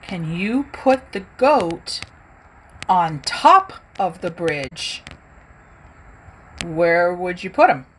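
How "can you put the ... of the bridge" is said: slow clear instruction. Shown as a demonstration. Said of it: "So if I say".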